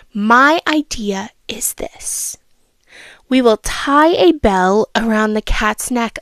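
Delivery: storybook reading voice; a child reading a fable aloud; story narration. A narrator's reading. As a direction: read it like a bedtime story. Young mouse's speech.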